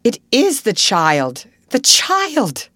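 slow loud cry breaking into a high whisper; overwhelmed recognition, loud then breathless; "the child" blurted loud, then whispered high; stunned exclamation. A narrator's reading. Invalid's shock at recognition.

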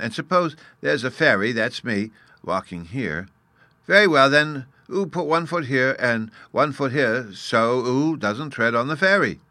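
put-on high, loud childlike explaining; little fairy boy, amused. Bruno amused at the grown-up's ignorance, patiently demonstrating. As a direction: explain it in a small child's piping voice.

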